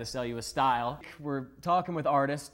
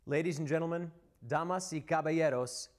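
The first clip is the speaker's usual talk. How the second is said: lucha libre announcer; 2 semitones higher than usual. Pretend. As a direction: announce the guest like a ring announcer. Host introduces the musical guest.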